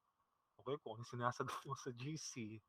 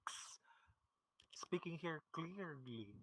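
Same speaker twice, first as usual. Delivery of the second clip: breathy, slowed stage whisper joking about clarity; playful whisper; 4 semitones higher, 5 dB quieter, slower than usual. Pretend. Teacher teases her online class in a slow playful whisper. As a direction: whisper it slowly, teasing the class.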